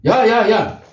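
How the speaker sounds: rebuking. Retold or imitated. God rebukes Moses for scolding the boy, mock anger. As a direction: put Moses in his place, half joking. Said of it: "하나님이 오히려 모세를 야단치는 거야".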